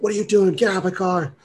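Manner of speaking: high-pitched mock alarm at an intruder; retold confrontation. To the guy robbing his car, retold confrontation. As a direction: re-enact challenging a thief, pitch jumping up.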